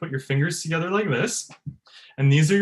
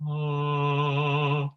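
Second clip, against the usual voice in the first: sustained "ah" between breathy and harsh; middle-ground "ah". Shown as a demonstration. Coach returning to the middle, a balanced held "ah". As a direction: hold a balanced tone on one pitch.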